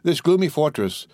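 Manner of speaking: ordinary delivery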